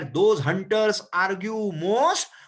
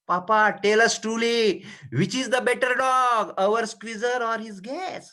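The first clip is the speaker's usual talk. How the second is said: voicing Natalia; 3 semitones higher than usual. Natalia asking her father to settle the dog argument, lightly voiced. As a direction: call out to papa as the daughter wanting a verdict. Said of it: "चुबुको".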